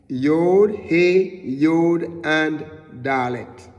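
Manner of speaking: name each letter with a punch; naming Hebrew letters. Shown as a demonstration. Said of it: "And is".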